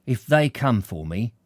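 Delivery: lightly voiced defiant man thinking to himself; a hint of a stubborn character talking himself up; story character's indignant inner monologue; defiant working man.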